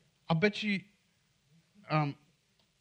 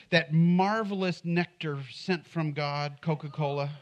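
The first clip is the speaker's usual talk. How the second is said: mock reverence; slower than usual. Mock reverent praise of Coke.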